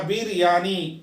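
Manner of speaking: "बिरयानी" broken into three beats; syllable by syllable. Shown as a demonstration. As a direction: sound out बिर-या-नी for learners. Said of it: "इसके जो है तीन syllable है".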